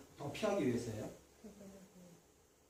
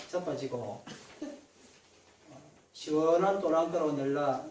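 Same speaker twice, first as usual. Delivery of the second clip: 경상도 사투리로 낭독; Gyeongsang dialect reading. Pretend. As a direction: read the psalm like a Gyeongsang local. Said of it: "무슨 버전이냐면 경상도 버전입니다".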